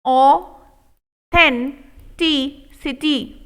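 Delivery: authenticity stretched very slow; walk through each syllable; slow model take. Shown as a demonstration. Teacher modelling authenticity slowly. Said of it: "slow model take".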